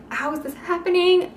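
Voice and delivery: mild mock alarm at the pliers. Watching the big tools come.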